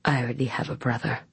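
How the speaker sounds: put-on drunk slurring, quick and soft; slurred. A narrator's reading. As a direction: slur it out like a drunk. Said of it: "Gabriel slurred".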